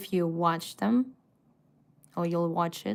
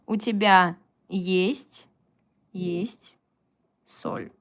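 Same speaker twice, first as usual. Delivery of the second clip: whispered correct answer; slower than usual. Shown as a demonstration. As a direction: whisper "У тебя есть, есть соль." slowly, fading away. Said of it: "therefore you use есть".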